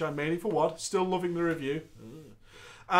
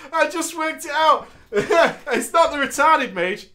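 laughing; 7 semitones higher, 6 dB louder, slower than usual. Real, not acted. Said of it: "laughing at the story".

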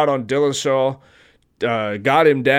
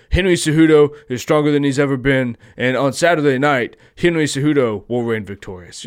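mock boast; 4 dB louder than usual. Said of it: "it sounds like some shit he would do".

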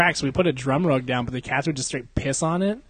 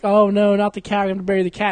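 higher, hammed-up weepy lament; mock crying; 6 semitones higher than usual. Imitating everyone crying over the dead cat, mock weepy. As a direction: imitate people bursting into tears. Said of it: "everyone started crying up like".

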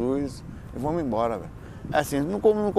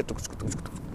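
treadmill beat imitation; 5 semitones lower, 13 dB quieter than usual. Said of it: "ouvindo música".

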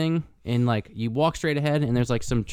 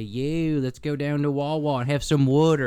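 put-on Philly accent; 2 semitones higher than usual. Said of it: "a Philly accent and say".

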